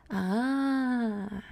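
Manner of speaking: long drawn-out "aah"; reaction "ah". Shown as a demonstration. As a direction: react with an extended А. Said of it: "show all the range of reactions".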